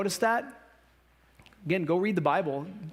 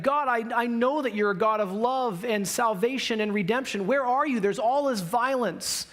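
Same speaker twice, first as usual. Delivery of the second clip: challenging plea; 4 semitones higher than usual. Acted. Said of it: "He's bringing this challenge to God".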